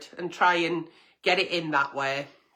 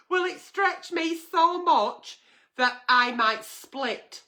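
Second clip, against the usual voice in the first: slow words broken by laughter; can't keep a straight face; laughing while reading; 8 semitones higher, slower than usual. Real, not acted. Agony aunt cracking up reading the letter, laughing. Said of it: "rereads through laughter".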